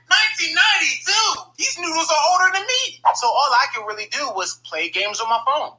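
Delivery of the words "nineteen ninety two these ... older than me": loud, high shout of disbelief; outraged shout. Retold or imitated. Kid shouting at expired grandparents' noodles, outraged. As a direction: yell it in outrage.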